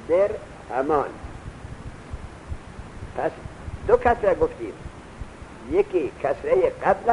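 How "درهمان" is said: "درهمان" drawn out slowly with the dal clearly given its kasra; spelling the word out. Shown as a demonstration. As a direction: sound out "درهمان" slowly for the class. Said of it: "که کسرهٔ دال باشد". («درهمان» را آهسته و شمرده تلفظ کن)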